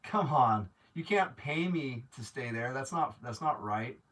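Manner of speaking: usual speaking voice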